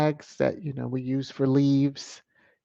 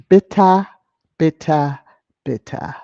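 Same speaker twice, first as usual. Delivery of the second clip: loud taunting "bitter", fading each time; mocking; 7 dB louder than usual. Real, not acted. To the troll who reported her, mocking taunt fading. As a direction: taunt them, start loud then die down.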